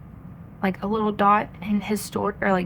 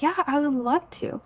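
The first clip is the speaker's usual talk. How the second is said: higher, keen imitated yes; eager acceptance; 6 semitones higher than usual. Quoting the translator agreeing to help, eager acceptance. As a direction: imitate someone delighted to be asked.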